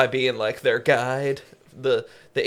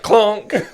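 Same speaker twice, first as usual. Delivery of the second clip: loud imitated horseshoe clonk; cartoon clonk; 7 semitones higher, 7 dB louder than usual. Podcaster imitates a horseshoe hitting a head, cartoon clonk. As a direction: make a comic bonk noise. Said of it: "the cartoon horseshoe sound".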